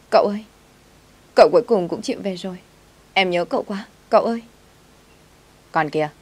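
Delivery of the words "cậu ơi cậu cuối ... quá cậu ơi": a hint of a tearful girl asking him not to leave; pleading servant girl. Maid greets returning master, crying.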